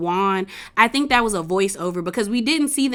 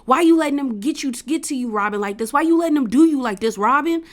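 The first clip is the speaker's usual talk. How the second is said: mock exasperated husband, higher and singsong; exasperated nagging; 3 semitones higher than usual. Husband on the phone scolding his wife, mock exasperated. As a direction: pester her rapidly in a raised pitch, imitating him.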